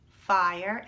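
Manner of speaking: "fire" said loud, stressing the F; loud key word. Shown as a demonstration. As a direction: punch the F in "fire".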